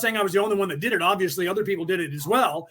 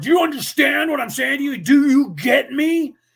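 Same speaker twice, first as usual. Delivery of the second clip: hostile, confrontational, raised and aggressive voice; 7 semitones higher, 6 dB louder than usual. Explaining what angry people mean by that word, act out their demand mock-aggressively. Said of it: "in an aggressive tone".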